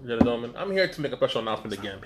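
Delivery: mock expert persona. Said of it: "can I jump back in and Doctor Doctor J".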